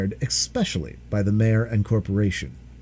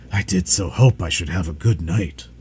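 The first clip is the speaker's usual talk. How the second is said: tired dragon; 6 semitones lower than usual. Acted. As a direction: sigh it out, exhausted. Dragon laments.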